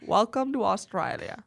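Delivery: practised Aussie greeting; stereotypical Australian accent. Shown as a demonstration. Co-host practises along, stereotypical Australian accent. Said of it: "stereotypical Australian accent".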